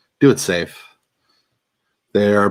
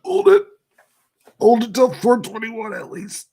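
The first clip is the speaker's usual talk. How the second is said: holding breath. Real, not acted. Talking while holding in smoke.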